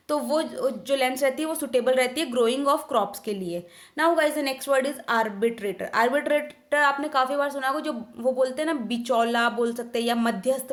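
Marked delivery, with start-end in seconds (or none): 4.0-6.7 very slow, each word spaced out; slow word announcement. Shown as a demonstration. Teacher announcing the next word to students, slow and deliberate. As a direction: announce the new word slowly and clearly.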